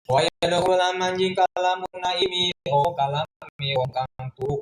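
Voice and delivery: chanted Arabic text with word-by-word Javanese gloss; kitab recitation. Acted. Teacher reading the Arabic kitab aloud to students, chanted recitation. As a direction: intone the classical text like a pesantren teacher.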